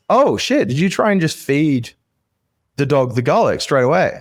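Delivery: a sudden high-pitched grandma gasp into a question; startled grandma. Acted. Grandma surprised at the little girl, high exclaim. Grandma reacts to failed garlic.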